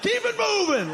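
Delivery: high shouted quizmaster taunt; hammed-up quiz host barking; pushy quizmaster. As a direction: fire it off like a game show host. Quiz-show racist persona.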